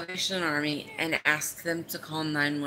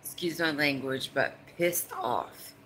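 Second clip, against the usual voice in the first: getting pissed off; 3 dB louder than usual. Real, not acted. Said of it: "I'm gonna get severely, but pissed off".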